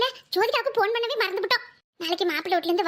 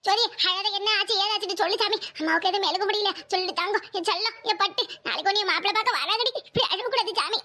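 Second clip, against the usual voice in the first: put-on gentle auntie hushing a child; soothing; 2 semitones lower than usual. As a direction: comfort a crying niece. Soothing crying niece on phone.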